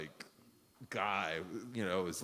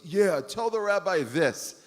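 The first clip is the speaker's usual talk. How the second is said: loud, higher snap of a retort; defiant retort; 10 semitones higher, 10 dB louder than usual. Retold or imitated. Prisoner snapping back at the rabbi, defiant and loud. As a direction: fling it back at him.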